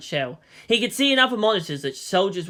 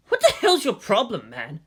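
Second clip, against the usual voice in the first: huffed; 4 semitones higher than usual. A narrator's reading. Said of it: "the nerve officer huffed".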